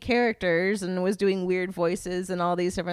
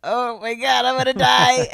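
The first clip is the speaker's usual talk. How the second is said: overwhelmed; 2 semitones higher, 8 dB louder than usual. Retold or imitated. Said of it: "I really thought I was gonna lose it".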